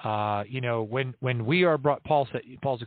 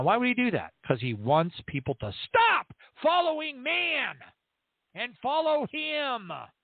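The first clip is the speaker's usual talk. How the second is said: shouting, higher; 11 semitones higher than usual. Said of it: "I have to yell into the microphone".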